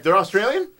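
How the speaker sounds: shaky attempt at Australian, questioning; attempted Australian accent. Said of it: "I can't do an Australian accent".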